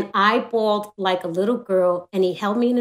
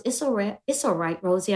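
soothing; 6 dB quieter than usual. Retold or imitated. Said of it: "She goes".

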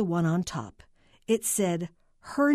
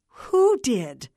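loud, raised, impatient question; sharp demand; snapping; 5 semitones higher, 7 dB louder than usual. A narrator's reading. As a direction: snap it at the rambling caller. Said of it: "Carla snapped".

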